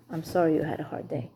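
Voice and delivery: soft, sincere sorry for her hard day; sincere sympathy. Retold or imitated. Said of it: "What do you wanna hear from your husband?".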